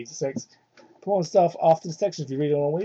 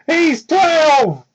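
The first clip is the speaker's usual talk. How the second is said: high, loud disbelief; shocked outburst; 10 semitones higher, 7 dB louder than usual. Real, not acted. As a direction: blurt it out in horror. Shocked reaction to the story.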